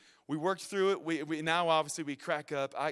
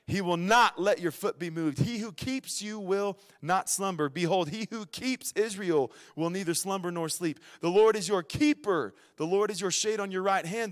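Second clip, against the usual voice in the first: emphatic, deliberate psalm recitation; scripture reading; 4 dB louder than usual. Real, not acted. Preacher reading psalm promises to the congregation, proclaimed scripture reading. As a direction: proclaim each promise firmly.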